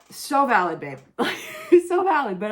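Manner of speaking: laughing so valid. Real, not acted. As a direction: laugh at the line. Laughing at villain.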